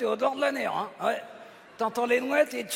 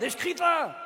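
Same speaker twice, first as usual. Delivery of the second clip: raised high protest; indignant shouting; 6 semitones higher than usual. Acted. Puppet denying to his partner that he shouts, yelping high. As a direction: protest shrilly that you're calm. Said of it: "Mais arrêtez de crier".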